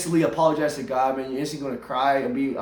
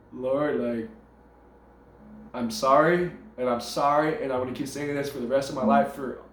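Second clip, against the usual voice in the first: subdued, lowered repentance; acted contrition, voice sinking as it goes; humble apology; 3 semitones lower than usual. Repentant person apologising to God.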